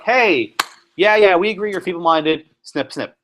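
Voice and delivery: rubber-stamp it with casual sarcasm; sarcastic. Retold or imitated. Hospital board brushing off Carrie Buck, sarcastic. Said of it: "I'm being sarcastic on purpose".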